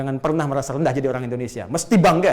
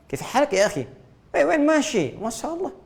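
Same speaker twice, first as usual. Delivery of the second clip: lightly put-on Arab accent, a little higher; 11 semitones higher than usual. Preacher showing the congregation how Indonesians sound Arab, in a light Arab accent. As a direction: toss off Arabic greetings in a mild Arab accent. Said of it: "kayak orang Arab".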